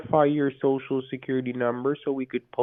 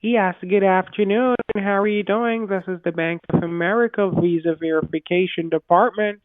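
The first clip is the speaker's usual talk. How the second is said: much higher, louder phone greeting; high-pitched greeting; 8 semitones higher, 4 dB louder than usual. Real, not acted. Third scammer high, bright.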